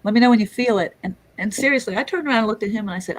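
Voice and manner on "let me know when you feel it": doctor's voice. Retold or imitated. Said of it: "And he goes".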